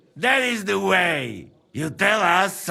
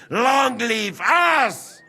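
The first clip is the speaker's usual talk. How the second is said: put-on drunken cheer; 5 semitones higher, slower than usual.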